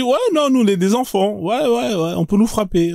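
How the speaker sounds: high, mocking imitation of the woman; mocking quote. Mocking the woman from the live, a high imitation. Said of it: "elle a dit".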